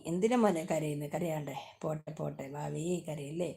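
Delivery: put-on soft consoling murmur, as to a child; soothing. Soothes someone who is crying.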